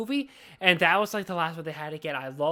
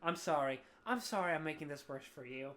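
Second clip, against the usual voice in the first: low, hushed apology; quiet apology; 5 semitones lower, 10 dB quieter than usual. Real, not acted. Podcaster apologising to co-host for derailing things, quiet apology. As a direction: drop your voice and say sorry.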